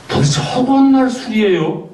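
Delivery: high, sharp nagging complaint; hammed-up wife scolding her husband about drinking; mock nagging wife. Wife nagging husband about his drinking, mock-scolding. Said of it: "라고 얘기를 할 때".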